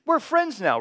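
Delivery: high, loud mock-giddy inner voice; hammed-up starstruck thrill; giddy excitement. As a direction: play up the starstruck cadet.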